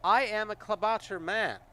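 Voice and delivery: high, loud, proud creature voice; spitting the word. Acted. Kobold spitting his title at the player. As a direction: spit the word out with pride. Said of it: "seems to spit out of the word".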